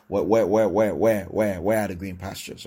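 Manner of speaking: mock whining where. Pastor mocking a complaining believer's prayer, whiny and insistent. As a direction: ham up a fretful, nagging question. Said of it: "You don't say".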